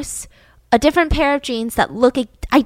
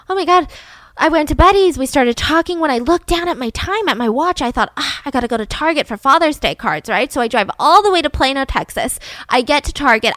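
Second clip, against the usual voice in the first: higher, louder flustered rambling; flustered excuse; 3 semitones higher, 3 dB louder than usual. Retold or imitated. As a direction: overexplain in a fluster. Candy's rehearsed alibi story.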